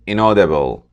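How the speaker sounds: "inaudible" stressed on its second syllable. Shown as a demonstration. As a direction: say "inaudible" with the weight on AU. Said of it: "The stress is on the second syllable".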